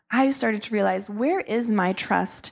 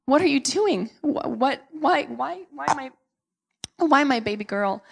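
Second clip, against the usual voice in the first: crying out to God; 4 semitones higher than usual. Retold or imitated. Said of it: "just crying out to God".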